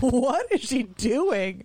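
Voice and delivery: slow, drawn-out disbelief; baffled dog. Retold or imitated. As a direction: voice the dog's mock bewilderment. Voices the dog's baffled reaction.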